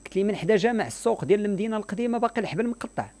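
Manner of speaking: high-pitched mock surprise; mock incredulous. Confronting the repeat beggar, retold.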